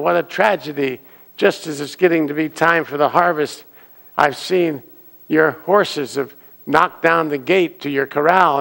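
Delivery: loud, high, breathless bad-news rush; alarmed neighbor. Neighbor banging on the door, alarmed and loud. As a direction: burst in waking the farmer with disaster.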